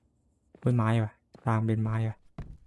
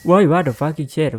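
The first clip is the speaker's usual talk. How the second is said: startled slow curse; 4 semitones higher, 7 dB louder, much slower than usual. Real, not acted. Startled by a scare in game.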